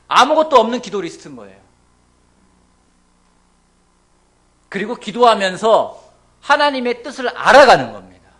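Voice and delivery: loud, passionate sermon delivery; fervent preaching. Real, not acted. Pastor urging the congregation, loud and fervent. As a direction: preach it out full force.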